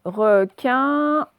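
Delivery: "Requin" loud, drawn out in two syllables; syllable demonstration. Shown as a demonstration. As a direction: stretch "Requin" so each syllable is heard. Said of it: "c'est dans la deuxième syllabe".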